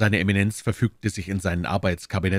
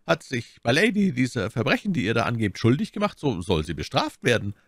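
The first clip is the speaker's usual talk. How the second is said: lightly voiced cardinal, pitch raised at first; stern cardinal; 5 semitones higher than usual. Cardinal promising punishment for My Lady, stern.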